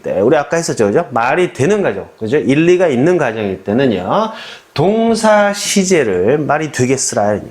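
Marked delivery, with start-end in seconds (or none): 4.7-7.4 slow, measured rule for memorizing; slow chant-like rule; memorize rule. Shown as a demonstration. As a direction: say it slowly like a slogan to memorize. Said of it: "외웁시다".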